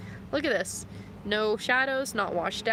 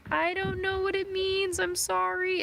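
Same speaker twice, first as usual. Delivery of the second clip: mock panicked apology; 12 semitones higher than usual. Scared student apologizing to teacher.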